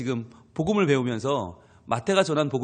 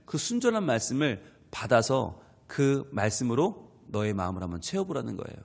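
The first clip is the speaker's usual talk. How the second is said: normal talking voice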